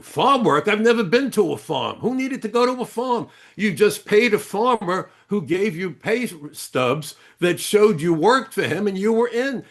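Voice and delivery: put-on the driver scoffing at farm work in a light Middle Eastern accent. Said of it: "heavy Middle Eastern accent".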